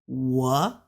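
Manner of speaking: drawn-out upward glide on 我; rising tone. Shown as a demonstration. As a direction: push 我 upward at the end. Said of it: "up one".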